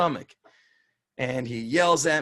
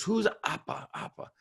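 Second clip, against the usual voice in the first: curious coach; 7 semitones higher, 4 dB quieter than usual. Retold or imitated. Romanian coach's question, retold.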